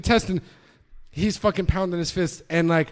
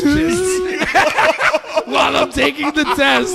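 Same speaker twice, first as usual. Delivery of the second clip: laughing through the words, higher; can't stop laughing while telling it; 8 semitones higher, 5 dB louder than usual. Real, not acted. Laughing while retelling the scene.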